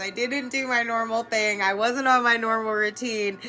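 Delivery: laughing while telling her best friend; laughing, flustered. Retold or imitated. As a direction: spill it out through laughter. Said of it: "I call her and say".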